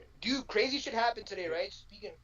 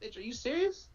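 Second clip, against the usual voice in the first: mildly annoyed, incredulous question; irritated; 3 semitones higher than usual. Retold or imitated. Shopper to cashier who called out the filming, irritated. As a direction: retell it with a touch of irritation. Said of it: "irritated, like".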